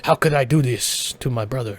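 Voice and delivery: low, slightly hushed anguished character voice; a hammed-up brooding warrior impression, kept low; Hanzo. Storyteller as Hanzo at the shrine, regretting his brother, low impression voice. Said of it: "that's my best Hanzo impression".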